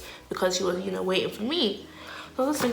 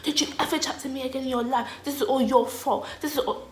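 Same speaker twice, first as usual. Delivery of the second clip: mock yelling in a raised pitch; retold screaming; 6 semitones higher than usual. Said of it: "I was screaming at him".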